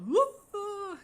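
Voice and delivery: high yelping woo; imitating dog bark. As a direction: mimic the dog's bark. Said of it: "She goes".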